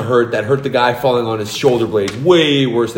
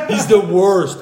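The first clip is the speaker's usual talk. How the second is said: high, drawn-out words through laughter; laughing; 7 semitones higher, slower than usual. Real, not acted. Agreeing that the governor sucks, laughing. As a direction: laugh as you stretch it out.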